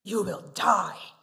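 loud, slow, stern pronouncement; booming voice of a stern God. Shown as a demonstration. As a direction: hand down the death sentence slowly. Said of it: "Which sounds better to you?".

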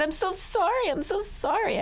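put-on high-pitched frantic little-kid begging; small high voice, desperate apology; pleading child. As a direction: beg like a child in trouble. Child threatened with a paddywhack begs.

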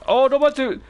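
high startled cry; jolted by the rat; shocked high no manches. Real, not acted. Rat jumps onto the chair.

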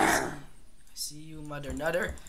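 loud taunt. Acted. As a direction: call it out mockingly. Taunting the enemy aloud.

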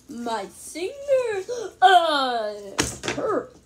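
laughing through a whimper; half laugh, half cry over sore finger. Real, not acted. Hurt finger, laugh-crying.

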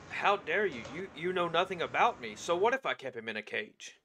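lightly voiced indignant kobold; a hint of a yappy offended lizard; squeaky yappy lizard chatter. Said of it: "I say in kobold voice".

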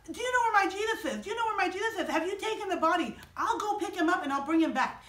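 high, urgent acted plea; desperate pleading. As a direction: beg anxiously in a high voice. Mary begs the supposed gardener.

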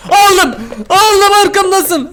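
high, loud panicked shout; loud, drawn-out alarmed yell; excited yell. Real, not acted. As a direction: cry out as the chaser closes in. Grabbed item, chased.

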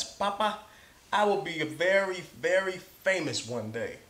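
put-on sly teenager telling his father he will be famous; sly boast. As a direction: tease it out with a twinkle. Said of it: "with a sly look and a twinkle".

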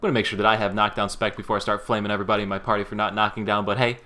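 punchy opening, then quick running patter; streamer intro. Acted. Streamer opening the show for viewers, upbeat intro patter.

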